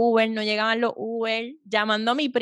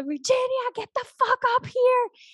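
mock crying yell; 13 semitones higher than usual. Sobbing date calling her back upstairs, high mock wail. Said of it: "Y él gritando y llorando".

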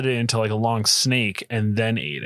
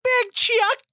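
announcer voice. Acted. Host announces own name.

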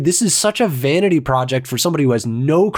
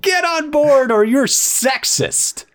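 mock critic voice; 10 semitones higher, slower than usual. Mocking imagined critic stance.

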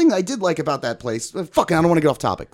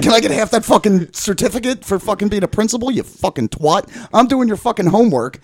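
mildly heated, raised-pitch mock demand; retold indignant rant; 4 semitones higher, 4 dB louder than usual. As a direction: replay the argument with some exasperation. Retold angry demand to his ex.

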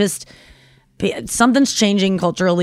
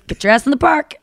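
park worker; 6 semitones higher than usual. Retold or imitated. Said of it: "And he goes".

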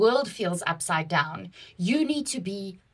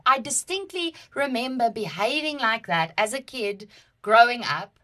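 normal talking voice

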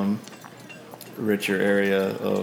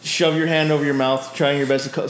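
laughing; 6 semitones higher, 4 dB louder than usual. Real, not acted. DM narrates through laughter.

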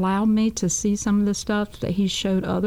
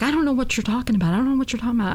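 frightened denial; 4 semitones higher, much faster than usual. Retold or imitated. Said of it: "his eyes just got real big".

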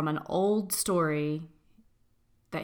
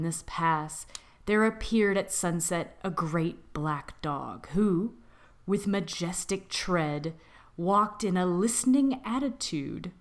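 spooky story narration. Acted. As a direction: draw listeners in with a creepy tale.

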